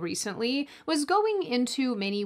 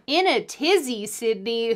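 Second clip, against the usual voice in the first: imitating mum; 5 dB louder than usual. Host catching herself sounding like her mum. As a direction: say it like your mum would. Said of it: "Who am I right now? My mum?".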